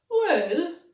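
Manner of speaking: a big rising, loud well. A narrator's reading. Bingy starts to answer Clegane, loud and drawn out. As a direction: call it out with a rise.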